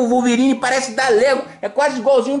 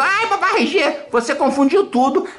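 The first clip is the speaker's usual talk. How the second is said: put-on little girl voice; 6 semitones higher than usual. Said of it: "que a amiguinha escreveu".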